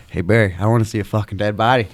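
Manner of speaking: loud and fast, egging him on; hyped yelling. Retold or imitated. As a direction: shout it like a hyped cornerman. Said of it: "kept saying, like".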